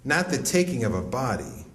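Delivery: measured, deliberate poem recital; poetry reading. Acted. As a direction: read it like a spoken word poem. Reads a poem aloud.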